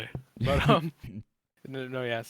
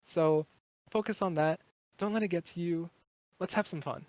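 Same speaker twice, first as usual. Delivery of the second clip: calming friend; 2 semitones higher than usual. Retold or imitated. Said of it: "calm me down, sort of be like".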